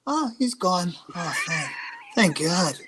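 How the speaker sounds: mock relieved, laughing through it; laughing relief. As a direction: pretend to be glad the kid is gone, giggling. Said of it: "I thought you were gonna say".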